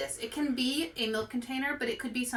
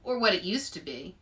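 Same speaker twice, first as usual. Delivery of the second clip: put-on lively read-aloud voice for kids; story narration. A narrator's reading. Librarian reading a picture book to kids, lively storytelling voice.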